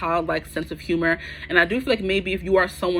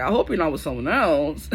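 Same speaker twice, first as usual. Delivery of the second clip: possessive voice. Retold or imitated. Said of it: "That possessive energy".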